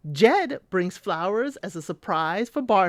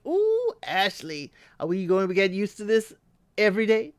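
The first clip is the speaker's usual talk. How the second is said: teasing voice. Retold or imitated. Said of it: "I was like".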